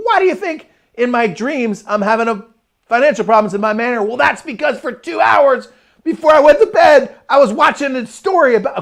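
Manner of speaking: high, loud rhetorical outburst; mock exasperation. Speaker explaining his dream about money trouble, loudly exasperated. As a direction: raise your voice as if it's utterly obvious.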